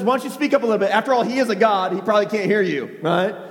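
mock-helpful needling; lightly mocking suggestion; poking fun. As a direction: tease them with feigned concern. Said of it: "begins to poke a little bit of fun".

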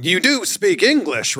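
imitating Vince. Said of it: "it's also Vince going".

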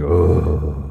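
long, low cake-stuffed groan. Acted. Man who ate a lot of cake, low groan. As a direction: groan from eating too much. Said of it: "I'm like".

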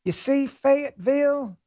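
high, drawn-out fake Southern accent; mock a pandering politician's fake Southern accent. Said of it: "What is with the Democrats and the fake accents?".

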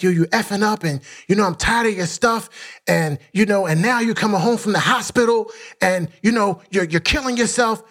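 wife's retold yelling. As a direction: lightly imitate an exasperated wife's telling-off. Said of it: "my wife's yelling at me".

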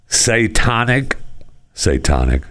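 "Satanic" said as say-TAH-nik; mispronounced. Real, not acted. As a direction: stumble on "Satanic" with an open ah in the middle. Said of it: "I can't even say it".

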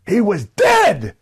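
high, slow shouted "He was dead"; vociferous repeat. Shown as a demonstration. Promo line repeated to the crowd, shouted high and slow. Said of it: "the same point a second time, but with much more vociferousness".

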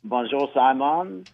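slow, hammed-up French accent on Bonjour, Simon. Husband greets the host in a joking French accent. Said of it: "that was my French accent".

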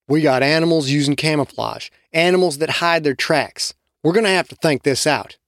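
ordinary delivery, nothing marked

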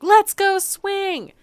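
imitating a group of kids in sing-song; kids chorus. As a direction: drag it out like eager little kids. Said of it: "they're like".

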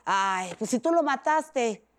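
slow sneering taunt; lightly voiced troll sneering; mocking jab. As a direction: drag it out with scorn. Mocking online comment.

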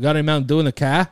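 quick, light Boston accent with a rising question. Shown as a demonstration. Cohost asks for an accent, a fast light Boston voice. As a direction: fire off the question like a Boston local. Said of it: "I gotta hear it".

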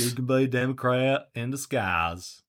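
Southern twang on a parroted line; Southern accent. Retold or imitated. Co-host parroting the Democrat line, mock Southern accent.

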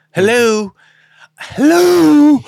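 exasperated sing-song hello; impatient hello. Retold or imitated. Impatient at driver slow to leave.

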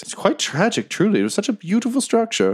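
high voice with mock sorrow; a tender little creature grieving politely; mournful badger. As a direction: badger lamenting the ruined temple, high and sad.

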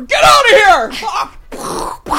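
high, slow, drawn-out mock yell; hammed-up outrage, stretched long; mock shout. Mock outrage at toilet paper.

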